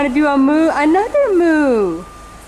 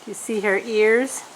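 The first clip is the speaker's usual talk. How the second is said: hushed aside; 5 semitones lower, 7 dB quieter than usual. Real, not acted. Soft aside about cow's ears.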